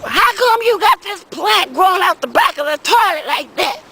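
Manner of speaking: mock yell from an annoyed wife; a hammed-up scolding wife; mad wife. Wife scolding about the toilet plant, mock yelling. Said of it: "my wife was mad".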